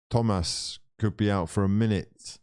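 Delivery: put-on name said with a Spanish accent. Football streamer slipping into Spanish pronunciation of an injured player's name, Spanish accent. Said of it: "saying it in a Spanish accent".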